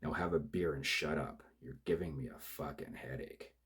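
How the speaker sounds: bully him into silence; angry thug. Acted. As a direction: killer yelling at his crying partner to shut up. Killer shouts down partner.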